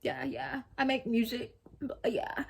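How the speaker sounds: lightly voiced easygoing dude; laid-back brother. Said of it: "chill, like, laid back".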